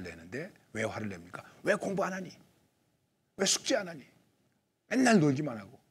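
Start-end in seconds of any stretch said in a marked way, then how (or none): 1.6-5.8 higher, louder nagging parent; mock scolding of a lazy child. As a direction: scold a child who won't study.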